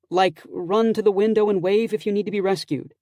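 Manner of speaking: a hint of a playful friend; Bree voice. A narrator's reading.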